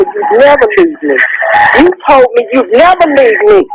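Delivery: high-pitched, anguished reproach; real agitated, upset protest; aggravated, angry. Real, not acted. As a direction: throw a broken promise back at a loved one, voice climbing. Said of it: "you're getting aggravated and angry".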